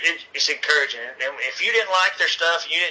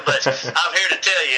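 laughing; 3 semitones higher than usual. Real, not acted. Laughs at his own joke.

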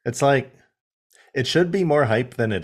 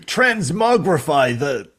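put-on Wheeljack accent; 2 semitones higher than usual. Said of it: "destitute Plumber Brother accent".

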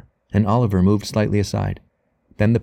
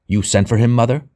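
a mild angry snap, a touch louder; snapped; 3 semitones higher, 4 dB louder than usual. Acted. Son confronts his sick mother, mild angry snap. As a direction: bite it out at her, trembling. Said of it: "snapped the man".

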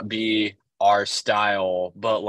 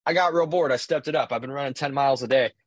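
imitating a casual one-upper, higher pitched; Joey Brenner; 5 semitones higher, faster than usual. Friend tops his running record, mock-casual. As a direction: brag offhand in a raised mock voice. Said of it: "Um, just casually. He's like".

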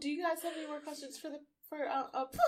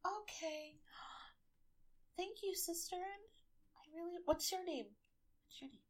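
a hint of higher gentle elf voice; gently sweet, slightly higher speech; lightly voiced elf; 6 semitones higher, 5 dB quieter than usual. Elf speaks to pixie.

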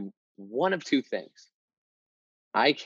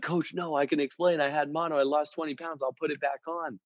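nervous pleading; 4 semitones higher than usual. Retold or imitated. Pleading excuse to angry coach.

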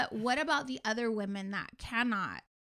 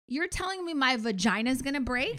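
retold shocked question; 3 semitones higher, 4 dB louder than usual. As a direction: act out the shock of bad news.

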